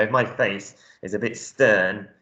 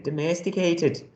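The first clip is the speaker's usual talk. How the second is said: a shaky attempt at an Irish accent; lightly attempted Irish accent; 6 semitones higher than usual. Shown as a demonstration. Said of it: "this Irish accent today".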